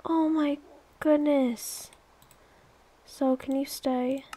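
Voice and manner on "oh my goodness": higher, louder retold cry, easing off; mock dismay, pitched up; retold alarm. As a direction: re-enact your panicked reaction. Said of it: "and I was like".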